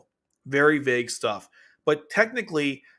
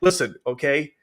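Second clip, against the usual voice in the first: mock stern retort; 4 semitones higher, 4 dB louder than usual. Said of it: "Suzaku's like".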